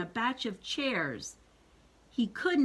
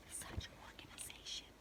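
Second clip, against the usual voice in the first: soft awed whisper; whispered aside; 21 dB quieter, faster than usual. Real, not acted. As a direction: breathe it in admiration.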